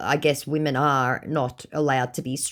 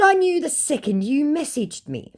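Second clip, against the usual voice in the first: mock self voice; 12 semitones higher than usual. Reading her own message aloud.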